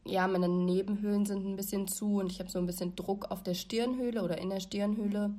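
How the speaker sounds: blocked nose, congested voice; stuffy nose. Real, not acted. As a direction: talk through a stuffed-up nose. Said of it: "mit meiner verschnupften Stimme".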